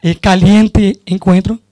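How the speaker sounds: Spanish with a Brazilian Portuguese accent; a Brazilian speaking Spanish loosely; Portuñol. Real, not acted. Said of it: "vou falar em portunhol".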